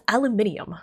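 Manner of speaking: aluminium as al-yoo-MIN-ee-um; British pronunciation. Shown as a demonstration. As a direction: stress MIN in aluminium, with the extra I. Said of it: "Brits pronounce it as".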